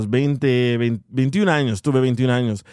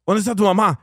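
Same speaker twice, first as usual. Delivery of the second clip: higher-pitched retold scolding question; mock scolding; 6 semitones higher, faster than usual. Building manager to a scared kid about rent, mock scolding. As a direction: lightly imitate a cross adult demanding an answer. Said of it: "Pero regañándome".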